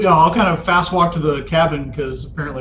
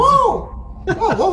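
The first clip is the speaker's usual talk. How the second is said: startled whoa; slower than usual. Acted. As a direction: jump back at the shout. Startled by surprise party.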